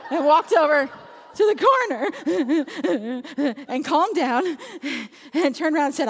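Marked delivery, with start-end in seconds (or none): 2.1-3.6 loud mock sobs; pulsing, hammed-up kid sobbing; imitated child crying. Imitating upset kid crying in the corner, mock sobs.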